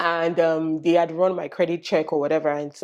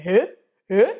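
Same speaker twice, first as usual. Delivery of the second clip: 1 incredulous huh; 4 dB louder than usual. Retold or imitated. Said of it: "everybody... is always like".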